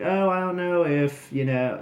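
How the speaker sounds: put-on a half-hearted Australian accent, quoting Peyton; bad Australian accent. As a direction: fumble a mock Australian accent. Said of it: "that's a really bad accent".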